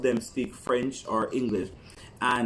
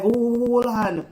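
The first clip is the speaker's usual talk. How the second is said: high, slow startled hold on; surprised; 11 semitones higher, 6 dB louder, slower than usual. Retold or imitated. Mother startled by her daughter's patois, high and slow. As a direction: stop short in surprise. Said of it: "I'm like".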